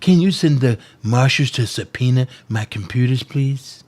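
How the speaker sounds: a light, understated Donald Trump take; hint at Trump, barely shifting the voice; mild Trump impression on the request. Shown as a demonstration. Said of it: "In my Donald Trump voice".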